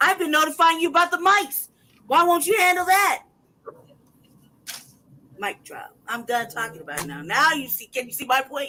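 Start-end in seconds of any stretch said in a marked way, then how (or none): 0.0-3.2 furious, angry ranting yell, loud and high. A speaker ranting at management, yelling angrily. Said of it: "I'm sorry, I'm yelling".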